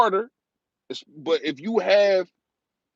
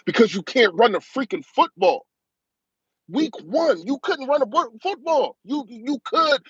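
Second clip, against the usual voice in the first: heated rant; 5 semitones higher than usual. Real, not acted. Fan ranting to his viewers about the team, heated and rising. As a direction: pitch climbing high as he fires off complaints. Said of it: "I get in my rant moment".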